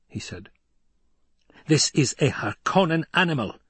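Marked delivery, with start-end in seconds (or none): 1.7-3.6 raspy, higher-pitched protest; acted rasping objection; rasped contempt. A narrator's reading. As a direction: rasp it out in disgust. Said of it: "Gurney rasped".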